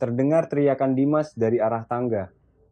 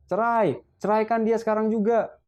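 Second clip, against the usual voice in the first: much higher, shrill furious demand; furious shriek; 11 semitones higher than usual. A narrator's reading. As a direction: scream the order at her son. Furious mother demands divorce. (ibu mertua menjerit marah menuntut cerai)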